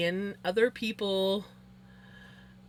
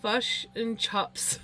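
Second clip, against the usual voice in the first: New Zealand accent; much slower than usual. Shown as a demonstration. Mimics New Zealand vowels.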